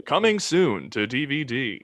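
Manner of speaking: slow, announcer-style read; mock trailer announcer. Joking on the podcast, slow mock trailer announcer. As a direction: sell it like a movie trailer.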